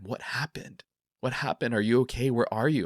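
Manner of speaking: anxious, rising questions; retold freaking out. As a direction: fire off worried questions, reliving the panic. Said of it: "you're freaking out".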